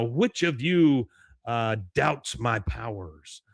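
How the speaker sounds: slow, drawn-out mock mystic; mystic yogi. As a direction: stretch the words like a showy guru. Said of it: "he goes".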